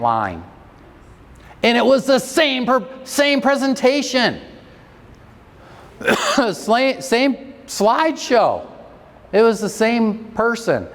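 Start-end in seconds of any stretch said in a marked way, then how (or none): 1.6-10.9 much higher, laughing with amazement; high-pitched, giddy disbelief; amazed excitement. Real, not acted. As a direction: gush that it was all the same. Amazed the same talk worked.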